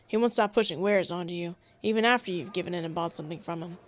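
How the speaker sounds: steady protective warning; protective wolf companion. Acted. Voicing Agnar the wolf.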